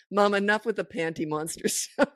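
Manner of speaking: unfazed son with a laugh in it; matter-of-fact teenage son, retold with amusement; retold casual weariness. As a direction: brush it off casually, lightly amused. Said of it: "said as casually as ever".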